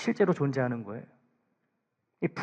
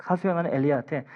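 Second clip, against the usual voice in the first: ordinary talk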